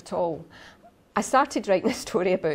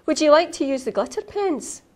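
sweet teacher voice; 8 semitones higher than usual. Acted. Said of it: "supply teacher offers pens".

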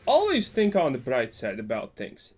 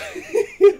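high loud cackle; burst of laughter; 9 dB louder than usual. Real, not acted. Streamer laughing at opponent's bad draws, loud high laugh. Opponent not drawing lands.

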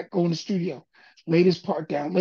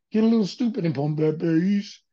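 imitated slowed-down vocal. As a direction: mimic a slowed record voice. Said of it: "I put my voice on and I slowed it down".

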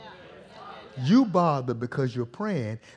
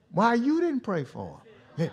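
frustrated; 7 semitones higher than usual. Acted. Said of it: "I don't want God frustrated with me".

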